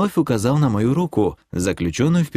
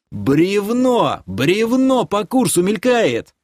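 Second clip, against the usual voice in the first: высокий тревожный выкрик, не во всю силу; предупреди об опасности, голос резко вверх; истошный крик; 10 semitones higher, slower than usual. A narrator's reading. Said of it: "Истошно заорал я". (тревожно кричит высоким голосом)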